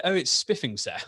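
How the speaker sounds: lightly put-on proper Queen's English; a touch of Queen's English; Queen's English accent. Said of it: "Rather proper Queen's English is that".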